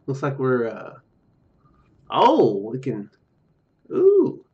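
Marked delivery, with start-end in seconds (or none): none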